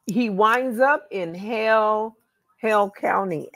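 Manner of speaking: real Southern US accent. Real, not acted. Researcher spelling out a county name for her co-host, Southern accent. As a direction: let a natural Southern accent slip out. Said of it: "Sorry about that southern, ... southern accent is there".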